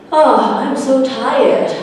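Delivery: slow, drowsy character groan; sleepy complaint. Acted. Mikey moaning to Sammy, slow and sleepy. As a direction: drag it out like you can barely wake.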